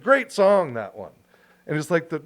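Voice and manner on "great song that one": enthusiastic. Retold or imitated.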